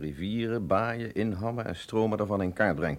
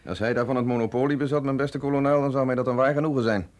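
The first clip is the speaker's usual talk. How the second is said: raised voice, biting mock politeness; louder sarcastic jab; 3 semitones higher, 4 dB louder than usual. Doctor mocking the colonel's temper, loud sarcastic politeness. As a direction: needle him with loud irony.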